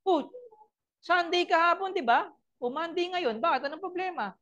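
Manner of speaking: high, fast, nosy neighbor voice; mock gossiping neighbor. Pastor mimicking neighbors gossiping about a shouting family, high and nosy. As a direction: play a neighbor who overheard the shouting.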